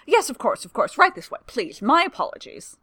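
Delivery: high, loud, tumbling over himself; an aide falling over himself to please; nervous clerk rushing to usher the prince in; flustered eagerness. Acted. Fumbling aide hurries to help.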